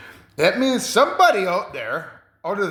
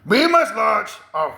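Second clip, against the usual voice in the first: military adviser; 5 semitones higher, slower than usual. Retold or imitated. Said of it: "He's like".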